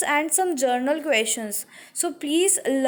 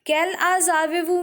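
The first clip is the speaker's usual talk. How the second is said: fast fluent "Quel âge avez-vous?" as a native would say it; quick natural read; 2 semitones higher, faster than usual. Shown as a demonstration. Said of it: "Third question".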